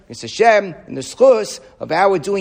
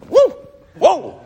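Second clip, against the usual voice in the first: mock astonished gasp; 10 semitones higher, 4 dB louder than usual. Mock shocked reaction.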